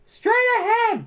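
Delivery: high, loud shout. A narrator's reading. Bastian shouting at Falkor to obey Zaida. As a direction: bark the order at the dragon. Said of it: "Bastian shouted".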